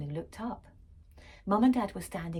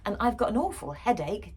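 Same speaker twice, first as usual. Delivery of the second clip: dad complaining; 3 semitones higher, 4 dB louder than usual. Acted. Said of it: "Dad complained".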